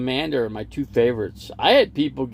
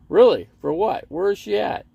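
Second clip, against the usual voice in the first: surprised; 9 semitones higher, 5 dB louder than usual. Real, not acted. Reacts to chat news.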